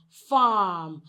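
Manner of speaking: "farm" with a long open "ah"; long vowel. Shown as a demonstration. Teacher explains the long sound inside word, long vowel. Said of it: "That is why it is pronounced as".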